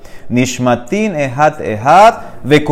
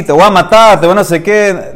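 mock threat; 3 semitones higher, 3 dB louder than usual. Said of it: "la gente a veces habla así".

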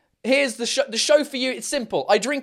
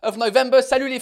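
loud greeting; 8 semitones higher, 4 dB louder than usual. Real, not acted. Live greeting.

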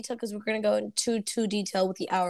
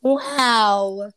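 wow with a cracking voice; 7 dB louder than usual. Retold or imitated. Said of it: "My voice cracked".

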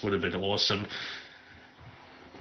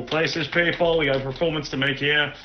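stage director; 4 semitones higher than usual. Acted. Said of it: "full Broadway opening night".

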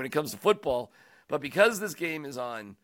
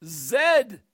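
stretched, higher "Zero sacks" in disbelief; incredulous emphasis; 7 semitones higher, 3 dB louder, much slower than usual. Real, not acted. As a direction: drag out "Zero" in mock shock. Mocking Von Miller's stat.

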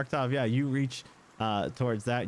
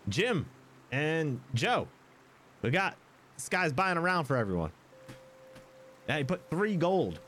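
raised-pitch call across a room; 5 semitones higher than usual. Acted. Tavern keeper hailing Jim and Joe, calling out. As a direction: announce it to the regulars.

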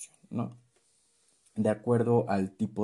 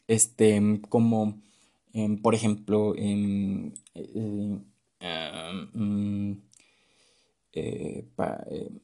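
demo filler words; much slower than usual. Shown as a demonstration. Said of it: "abusar de las muletillas".

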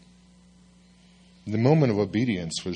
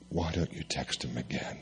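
soft, low nudging voice; gentle whisper; 5 semitones lower, 9 dB quieter than usual. Retold or imitated. Holy Spirit nudging the pastor to text again, soft and low. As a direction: murmur a quiet suggestion. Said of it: "the Holy Spirit whispers to my ear".

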